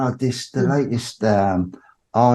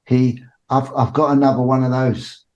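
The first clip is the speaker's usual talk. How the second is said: teasing tease; 5 semitones higher than usual. Retold or imitated. Voicing Cobra teasing again.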